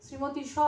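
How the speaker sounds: "শ্রীমতী শ" with শ left dangling as a separate syllable; stranded final sound. Retold or imitated. Teacher imitating the stuck newsreader, "শ্রীমতী শ" with the leftover শ on its own. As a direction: say "শ্রীমতী" as one word, then a lone শ. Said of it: "হাতে রইল তালব্য শ".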